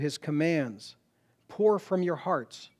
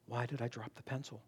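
P=A; quiet puzzled musing; 6 semitones lower, 15 dB quieter than usual. Retold or imitated. Retelling his inner question.

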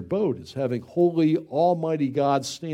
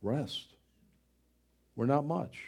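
ordinary delivery

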